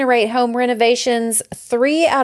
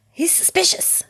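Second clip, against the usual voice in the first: hushed, higher-pitched neighbor gossip; mock suspicious; 8 semitones higher, 5 dB quieter than usual. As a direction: confide it softly, like a wary neighbor. Acting a wary neighbor online.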